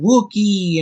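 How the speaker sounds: high squeal of a toy; quick high-pitched toy imitation; imitating talking toy. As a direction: chirp it high like an electronic toy. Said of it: "and it went".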